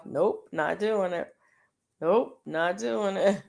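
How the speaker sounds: slow, deliberate mock refusal; self-talk refusal. Shopper telling herself the whole time, slow playful refusal. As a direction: repeat it like a playful mantra to yourself. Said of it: "I kept telling myself".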